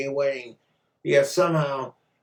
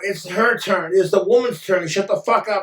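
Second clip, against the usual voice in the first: mock angry feminist; 4 semitones higher, 3 dB louder than usual.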